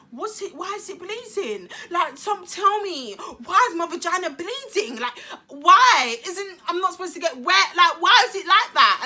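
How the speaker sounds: high, loud, alarmed questioning; panicked questions. Retold or imitated. Teen asking her friend Marzi why she's bleeding, high and panicked. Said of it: "I was like to Marzi".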